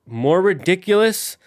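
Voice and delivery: high, loud, stretched disbelief; incredulous retort. Retold or imitated. Streamer retorts to Blastoise critics, incredulous. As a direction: throw it back, drawn out and incredulous. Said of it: "And I'm like".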